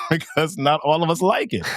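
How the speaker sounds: chuckling through the words; laughing. Real, not acted. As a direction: say it while laughing. Joke about hating math.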